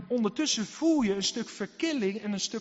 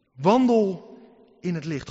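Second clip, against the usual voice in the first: one loud, drawn-out "Wandel"; a preacher's booming call to walk; shouted command; 9 dB louder, slower than usual. Real, not acted. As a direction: bellow the word like a trumpet call.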